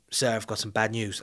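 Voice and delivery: lightly voiced serious officer; a rough, slight imitation of a grave detective; serious Steve. Detective bringing his boss bad news, lightly imitated seriousness. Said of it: "Steve sometimes comes in very serious".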